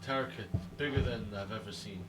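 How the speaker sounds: halting, with long pauses; one word at a time. Acted. Zint telling the impatient questioner of a terrorkit, one word at a time. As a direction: dole it out in fragments. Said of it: "Zint is like, "One word at a time".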